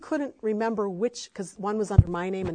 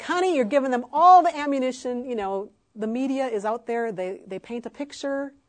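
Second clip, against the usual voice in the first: mama bear scolding; 3 semitones higher, 6 dB louder than usual. Retold or imitated. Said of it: "I'm like".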